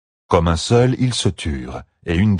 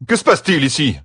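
put-on young man asking; 9 semitones higher, 3 dB louder than usual. A narrator's reading. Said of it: "demanda-t-il".

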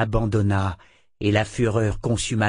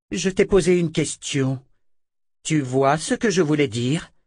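insistance furieuse; 6 semitones higher than usual. A narrator's reading. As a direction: question répétée, plus aiguë et forte. Verna torture et interroge Richard. (Verna exige une réponse, furieuse)

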